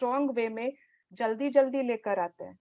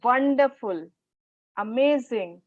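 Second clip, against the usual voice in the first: "Wonderful, amazing" said with eager delight; strong feeling; slower than usual. Shown as a demonstration. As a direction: gush with enthusiasm. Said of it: "उसमें भी आपकी strong feelings आती है".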